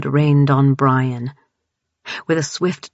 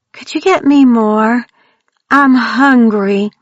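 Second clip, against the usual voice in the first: put-on creepy monster child; 7 semitones higher, 6 dB louder than usual. A narrator's reading. Grace taunting Mackenzie over her empty glass, eerie and high. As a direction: menace hidden in a sweet request.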